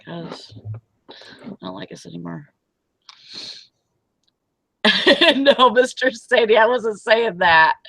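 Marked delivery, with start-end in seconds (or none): 0.0-2.5 mock sulking. Mock sad joke.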